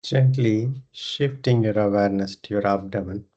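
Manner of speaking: unhurried meditation guidance with long pauses; guided meditation. Acted. Leads a yoga nidra meditation.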